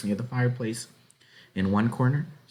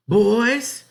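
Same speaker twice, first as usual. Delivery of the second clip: put-on high, loud call to the boys; mother ordering her sons out, raised high; 9 dB louder than usual. A narrator's reading. Mother calling her boys to the barn, loud and commanding. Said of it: "Mistress Murdoch ordered".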